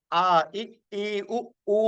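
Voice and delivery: "ఆ, ఇ, ఈ, ఉ, ఊ" clear and open-throated; open vowels. Shown as a demonstration. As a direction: sing out "ఆ, ఇ, ఈ, ఉ, ఊ" fully open. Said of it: "పూర్తిగా తెరిచి పలకాలి". (అచ్చులు పూర్తిగా తెరిచి)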